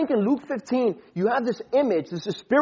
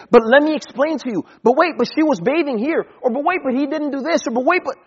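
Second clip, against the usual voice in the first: a lightly voiced whiny excuse, higher; mock excuse-making; 5 semitones higher than usual. David imagined dodging Nathan, mock whiny excuses. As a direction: play the squirming excuse-maker.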